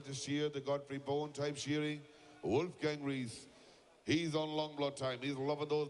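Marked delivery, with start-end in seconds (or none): 2.4-3.5 slow, stretched announcer name call; drawn-out name call. Real, not acted. Commentator calls the Austrian shearer's name, slowly stretched. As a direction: draw the name out for the crowd.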